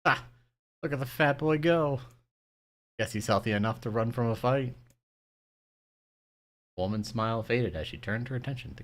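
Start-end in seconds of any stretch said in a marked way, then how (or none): 0.0-0.2 barked laugh. Acted. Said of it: "barked out a single laugh". 0.8-4.7 mocking grandma. Grandma mocking fleeing boy.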